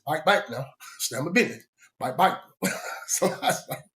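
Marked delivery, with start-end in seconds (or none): 0.0-2.4 "Bike" said with a long i like bike, South Georgia style; say back as "bike". Retold or imitated. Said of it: "they don't say back. It's".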